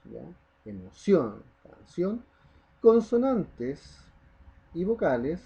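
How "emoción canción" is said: "Emoción", "canción" with the ending CIÓN set apart and stressed; stress on final syllable. Shown as a demonstration. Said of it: "donde yo marco la voz".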